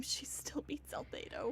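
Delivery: breathy whisper, almost to herself; whispered aside. Real, not acted. Streamer whispering a smug aside about Albedo. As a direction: let it slip out as a hushed aside. Aside while assessing team strength.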